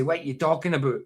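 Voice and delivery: light Glasgow demo with "what" as "wit"; Glasgow accent. Shown as a demonstration. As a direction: quote it as a Glaswegian would. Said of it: "They would say".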